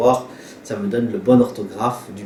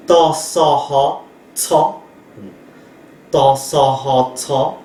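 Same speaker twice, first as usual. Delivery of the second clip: slow spelling; 2 semitones higher, slower than usual. Shown as a demonstration. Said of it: "teacher spells consonant aloud".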